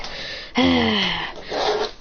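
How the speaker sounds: long exhaled cry of being knocked back; drawn-out effort noise. Acted. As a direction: voice the impact as you fly backwards. Sound as Minato flies back.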